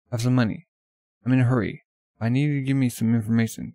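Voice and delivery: in a rush, loud and insistent; urgent request. Acted. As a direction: push him for information. Urgent plea to shopkeeper.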